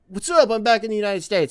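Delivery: high, breezy hello voice; cheery greeting. Pretend. Mock returning traveller, cheery and high. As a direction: chirp it like a carefree returnee.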